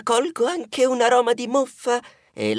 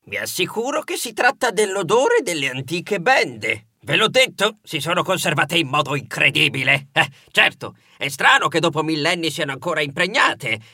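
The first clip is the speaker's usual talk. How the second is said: museum director; 5 semitones lower than usual. Acted. Museum director reassuring the visitors about the smell, lightly lowered voice.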